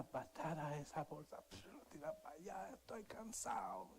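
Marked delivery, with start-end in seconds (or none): 1.5-3.9 sharp breathy father line, pitched up; father's tired brush-off, lightly voiced; mock grumbling father. Father kicks bag, grumbles.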